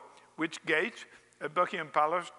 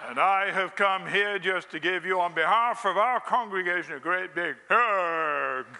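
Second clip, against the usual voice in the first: hearty American visitor. Pretend. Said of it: "that's how we Americans talk".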